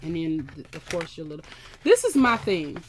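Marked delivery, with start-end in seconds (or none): 1.8-2.8 rant. Real, not acted. Ranting about unwanted toolkits.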